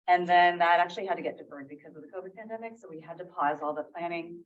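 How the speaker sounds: talking around a mint; speaking with a mint in mouth; mouth full. Real, not acted. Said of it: "I just had, had a mint in my mouth".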